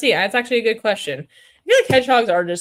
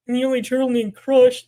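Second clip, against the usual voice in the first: louder puppet voice insisting; stubborn puppet turtle; insistent turtle puppet; 4 semitones higher, 6 dB louder than usual. Pretend. Turtle puppet insisting to the host, louder puppet voice.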